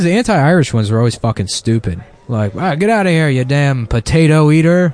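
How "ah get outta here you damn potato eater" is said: mock grumbling bigot. Mocking old anti-Irish insults.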